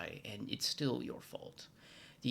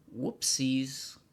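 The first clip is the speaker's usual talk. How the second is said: casual whoopsies; 2 semitones higher, 6 dB louder than usual. Shown as a demonstration. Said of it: "That's why I say it's like".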